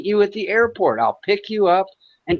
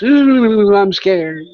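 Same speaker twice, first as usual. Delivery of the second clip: loud sarcastic ooh, then a fake scared line; mock fear; 5 dB louder, much slower than usual. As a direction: pretend to tremble, all sarcasm. Mocking the threat of gangs.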